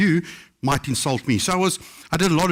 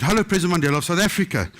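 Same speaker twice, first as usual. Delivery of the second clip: every word spelled out, a touch faster and higher; full formal greeting; 4 semitones higher, faster than usual. Retold or imitated. Caller reciting full title to Mandela on phone. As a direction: recite the whole title dutifully. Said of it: "Well, say the whole sentence".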